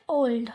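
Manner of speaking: ओल्ड with one plain o vowel; simple pure o in ओल्ड; common mispronunciation. Shown as a demonstration. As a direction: say ओल्ड without any glide before the l. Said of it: "लेकिन इसको ओल्ड नहीं बोलते".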